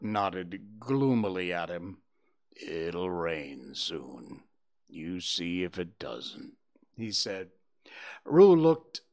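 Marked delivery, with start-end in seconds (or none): 2.6-6.6 low, slow, soft donkey voice; gloomy Eeyore. Acted. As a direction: mope through it like a gloomy old donkey.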